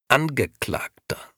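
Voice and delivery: sharp. A narrator's reading. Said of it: "unterbrach ihn der Herr in der Mitte scharf".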